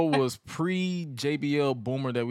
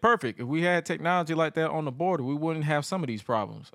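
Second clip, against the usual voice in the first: Bradshaw voice; 3 semitones higher than usual. Retold or imitated. Host retelling Bradshaw's border jab, mild smug impression. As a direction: gloat like a pleased tycoon. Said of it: "and Bradshaw said".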